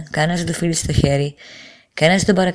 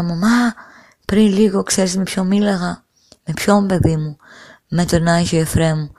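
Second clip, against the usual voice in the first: retold tearful excitement. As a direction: tell mother of the miracle, half-sobbing. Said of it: "άρχισα να ουρλιάζω και να κλαίω". (συγκινημένα, σχεδόν κλαίγοντας)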